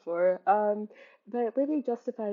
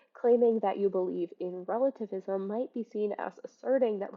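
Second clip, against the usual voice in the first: reading a definition. Real, not acted. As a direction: read it out like a textbook entry.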